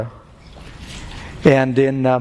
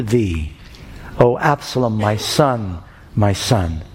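solemn scripture reading; slower than usual. Acted. Preacher reads the David passage.

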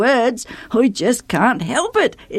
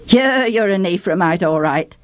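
rough guard. Acted. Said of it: "said the guard roughly".

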